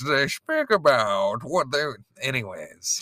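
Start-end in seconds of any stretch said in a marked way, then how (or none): 0.1-1.8 mid-Atlantic accent. Shown as a demonstration. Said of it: "mid-Atlantic accent".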